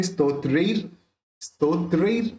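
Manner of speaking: स्तोत्रेर closing on a clear R; reph as R. Shown as a demonstration. Teacher showing the reph rule, स्तोत्रेर with final R. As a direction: end स्तोत्रेर with a sounded R. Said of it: "र उच्चारण करना है".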